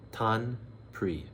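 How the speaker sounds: "Tant" and "pis" said apart with a pause; teacher separating "Tant" from "pis"; split into syllables. Shown as a demonstration. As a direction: break "Tant pis" into its two parts. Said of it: "is literally how it looks".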